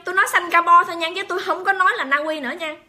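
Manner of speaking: ordinary delivery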